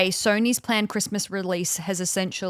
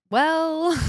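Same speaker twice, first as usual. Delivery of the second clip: sultry Obama voice; 7 semitones higher than usual. Retold or imitated. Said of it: "in his very, you know, sultry voice".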